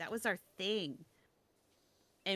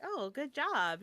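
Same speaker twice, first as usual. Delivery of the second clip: higher-pitched, encouraging praise; patronizingly supportive, pitched up; mock encouragement; 7 semitones higher, slower than usual. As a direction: imitate someone kindly cheering on a beginner. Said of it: "trying to con-, encourage me".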